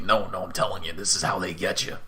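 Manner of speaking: mildly insistent weapon voice; a touch of strenuous pleading; arguing Whelm. Acted. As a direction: argue urgently, in a lightly put-on voice. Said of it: "Whelm is arguing strenuously with you".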